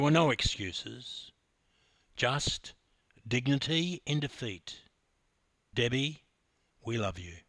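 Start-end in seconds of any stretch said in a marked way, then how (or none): 5.7-7.4 hushed loving salute to Debbie; tender tribute. Real, not acted. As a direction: say it like a thank-you to her.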